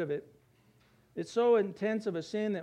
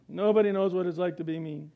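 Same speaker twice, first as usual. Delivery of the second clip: Eeyore mope; 2 semitones lower, 4 dB louder than usual. Retold or imitated. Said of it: "Like Eeyore".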